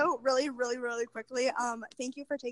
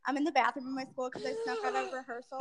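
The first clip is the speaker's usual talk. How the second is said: bathroom acoustics. Real, not acted. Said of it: "compliment the acoustics you have in the bathroom there".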